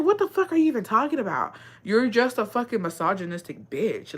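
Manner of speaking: telling off sexist commenters, fed up; exasperated outrage. Retold or imitated. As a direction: let them have it.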